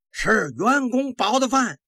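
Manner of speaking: high, drawn-out soldiers' reply; mock chorus shout. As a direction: answer like a rank of officers in unison. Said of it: "军官们一齐的齐声回答".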